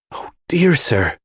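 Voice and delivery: put-on high, slow lament of an old maid; distressed wail. A narrator's reading. Dorcas laments her mistress, high and slow. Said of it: "cried Dorcas".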